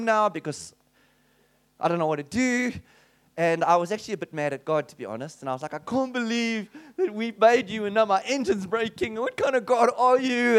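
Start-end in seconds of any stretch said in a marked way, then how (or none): 5.8-10.6 high, loud, indignant complaint to the sky; mock angry rant at God. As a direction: throw a wounded, accusing rant upward. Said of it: "And I was doing that whole thing".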